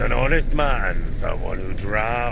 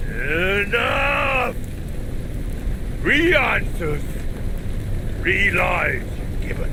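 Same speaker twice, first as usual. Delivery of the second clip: angry; 5 semitones higher than usual. Acted. Demon loses patience with liar.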